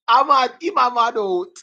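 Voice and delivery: laughing mock madman. Teacher cracking up while acting the madman, laughing. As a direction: giggle your way through the crazy line.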